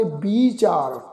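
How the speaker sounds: ਵਿਚਾਰ whispered as bichaar, with the bihari heard as bi; whispered demo. Shown as a demonstration. Teacher whispering the correct sound of ਵਿਚਾਰ for students. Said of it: "ਇਸ ਦਾ ਪਾਠ ਉਚਾਰਨ ਕਰਾਂਗੇ".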